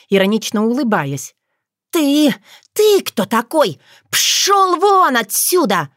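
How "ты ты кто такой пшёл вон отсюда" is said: much higher, slow, furious spitting at him; hissing vixen. A narrator's reading. Liusa furiously hisses at the stranger to get lost. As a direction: drive the stranger off. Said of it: "прошипела Лиусса".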